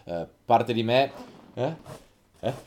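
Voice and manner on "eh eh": sneezing. Real, not acted. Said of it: "Eh, salute".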